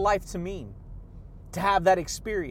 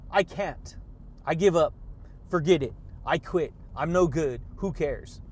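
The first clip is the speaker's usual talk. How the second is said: mock-defeated mumble, sinking lower; defeated self-talk; 4 semitones lower than usual. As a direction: let each phrase drop lower and give up. Voicing defeated negative self-talk.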